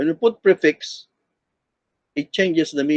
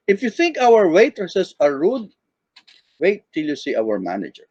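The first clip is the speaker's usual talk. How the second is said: low voice. Shown as a demonstration. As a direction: voice dropping low after "rude". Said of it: "in a low voice".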